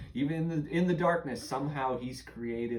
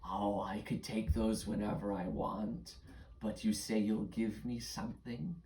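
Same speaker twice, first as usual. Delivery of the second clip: lightly voiced scornful creature; shadow creature; 4 semitones lower, 3 dB quieter, slower than usual. Shadow creature weighing a child's offer, lightly voiced scorn. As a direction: dismiss the offer with a touch of menace.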